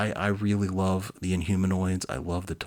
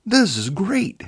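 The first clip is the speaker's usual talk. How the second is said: much higher and louder, thrilled; rejoicing director; 13 semitones higher, 10 dB louder, slower than usual. Acted. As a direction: crow with delight like a mad filmmaker. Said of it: "he rejoiced".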